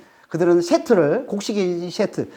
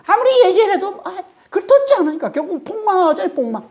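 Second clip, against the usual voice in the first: much higher, laughing through the words; 13 semitones higher than usual. Real, not acted. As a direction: chuckle at the leaders' folly. Mocking leaders who won't listen.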